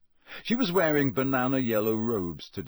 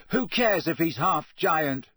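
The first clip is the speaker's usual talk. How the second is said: shouting; 5 semitones higher, 4 dB louder, slower than usual. Acted. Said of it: "Harry shouted".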